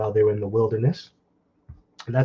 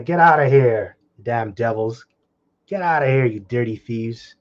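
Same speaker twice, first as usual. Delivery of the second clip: mock shout. Preacher voicing villagers chasing off thieves, mock shout. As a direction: yell them out of town. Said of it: "They cried after them".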